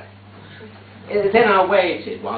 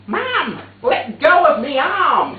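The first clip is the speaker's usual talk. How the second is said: loud, higher, slowed yell to let go; shout at Mum; 12 semitones higher, 7 dB louder, slower than usual. Retold or imitated. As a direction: snap at her to let go of the arm. Pulling his arm from Mum.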